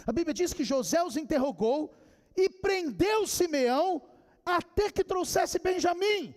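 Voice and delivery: building preacher's storytelling; emphatic preaching. Acted.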